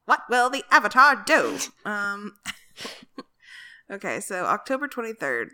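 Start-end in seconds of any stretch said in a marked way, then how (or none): 0.0-1.6 louder cliffhanger narrator voice; dramatic announcer. Acted. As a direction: ask it like a cartoon cliffhanger. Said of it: "That was who I was channeling".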